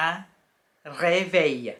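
un réveil as "ray-vay"; un réveil said slowly; French pronunciation. Shown as a demonstration. Teacher naming the alarm clock, careful French. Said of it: "ก็คือ".

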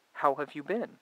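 deliberate dictation voice; dictating to the phone. Shown as a demonstration. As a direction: say it plainly for the phone to catch. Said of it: "you could say".

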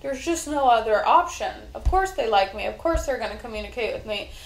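emphatic, assured self-reassurance, easing off by the end; punchy, confident affirmations; positive self-talk. Acted. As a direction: insist to yourself that it is certain. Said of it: "communicate positively with myself".

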